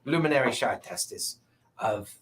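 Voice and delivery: lightly voiced, slightly nervous merchant. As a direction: reassure a wavering customer in a light character voice. Game master voices the merchant.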